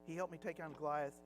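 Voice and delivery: lightly acted inner pep talk; inner self-talk. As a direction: talk yourself through it under your breath. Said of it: "little mental discussions in his head".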